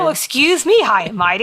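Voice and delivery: lifted, teasing indignation, dropping at the end; mock offence. Co-host teases her over gas station food, mock offence. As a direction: tease with a put-upon high start.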